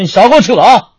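hammed-up outrage over old wine; mock anger. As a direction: snap back at the waiter. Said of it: "当时我一听我就火了".

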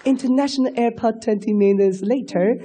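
Chinglish announcement. Retold or imitated. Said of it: "还没来得及扫盲呢".

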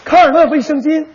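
gentle commercial voiceover; mock ad read. Partner reads a gentle sanitary-pad commercial. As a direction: soothe like a product ad. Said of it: "电视康尔乐多好听啊".

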